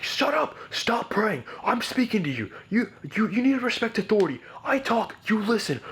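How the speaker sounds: very high mock screaming; screaming dad. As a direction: imitate the father yelling, pitch soaring. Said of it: "he was getting crazy".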